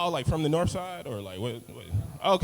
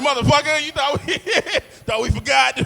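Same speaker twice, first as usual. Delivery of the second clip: mock thug threat; 12 semitones higher, 6 dB louder than usual. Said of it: "came out like".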